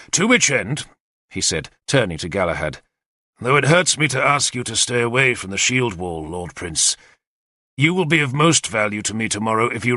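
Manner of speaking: a lightly voiced commander, brisk and eager; keen war leader briefing his captains; Arthur's plan. Arthur explains the attack to his captains, eager and confident. Arthur gives final orders.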